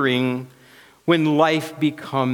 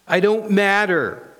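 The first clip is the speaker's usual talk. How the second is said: insecure inner self; 5 semitones higher than usual. Acted. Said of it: "says my inner self".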